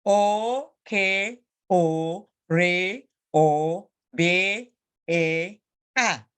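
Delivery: slowly spelled, every syllable held and set apart; spelling demo. Shown as a demonstration. Teacher showing pupils how to spell, slow and deliberate. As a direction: sound out each letter for learners. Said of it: "how to do spelling".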